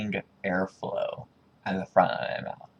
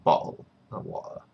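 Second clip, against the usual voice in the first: British "bottle of water" with the T's omitted; mock-British glottal stops in "bottle of water"; British accent; 4 semitones lower than usual. Shown as a demonstration. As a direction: drop both T's, British style. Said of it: "British people would say".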